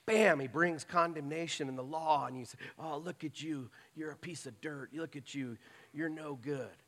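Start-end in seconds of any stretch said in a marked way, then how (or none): 2.8-6.8 quiet, mocking scorn, lightly voiced; devil's sneering accusation. The devil condemning the sinner after the fall, quiet mocking sneer. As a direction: sneer it softly like the accuser gloating.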